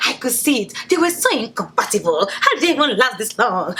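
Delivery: mock know-it-all commenters. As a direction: imitate smug online commenters, mockingly. Mimicking commenters under video.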